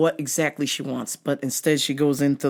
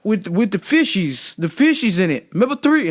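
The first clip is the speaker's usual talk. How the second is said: mock customer; 6 semitones higher, 4 dB louder than usual. Retelling customer's excited voice.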